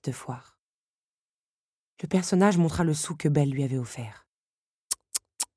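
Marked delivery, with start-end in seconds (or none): 5.0-5.5 soft reproving tsk-tsk; tongue clicking. A narrator's reading. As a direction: click the tongue softly, scolding. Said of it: "fit-il en agitant un doigt". (claquements de langue réprobateurs)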